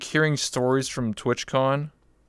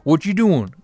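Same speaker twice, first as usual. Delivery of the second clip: put-on Southern hillbilly accent; 7 semitones higher, 8 dB louder than usual. Streamer showing her old gaming voice, hammed-up Southern hillbilly accent. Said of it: "a real South".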